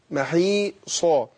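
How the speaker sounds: محيصا said maħiːsa with a clear ħ and long i, slowly; correct محيصا. Shown as a demonstration. Teacher to student correcting the reading of محيصا. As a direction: draw out محيصا, breathy ħ then long ii. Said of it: "ما أقولش ما، أقول محي".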